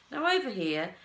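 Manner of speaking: high, loud beckoning; excited call. A narrator's reading. Wonka excitedly calling the party across the room. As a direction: wave them over with glee.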